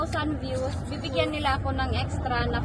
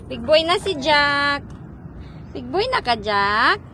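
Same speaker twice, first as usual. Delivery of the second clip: put-on baby talk; 5 dB louder than usual. Cooing to baby.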